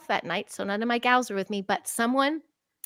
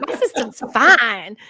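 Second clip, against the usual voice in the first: laughing irony; 6 dB louder, slower than usual. Retold or imitated. Ironic self-quote, laughing.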